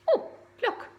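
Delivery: high, bright-eyed gasp of delight; excited. Real, not acted. Reader thrilled to show the children the picture, high. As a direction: point it out in delight.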